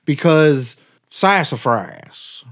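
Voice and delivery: slow, drawled mock Southern accent on because sassafras; mock southern twang. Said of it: "making fun of his southern twang".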